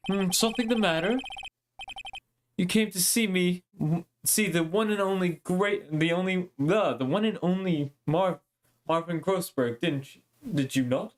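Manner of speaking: a hint of a pompous old lawyer; lightly voiced boastful lawyer; self-important lawyer. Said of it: "now I gotta give him a voice".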